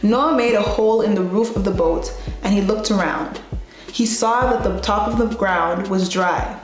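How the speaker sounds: steady, even Bible-story reading; Sunday school reading. Acted. Teacher reads Genesis to the class in a steady storytelling voice.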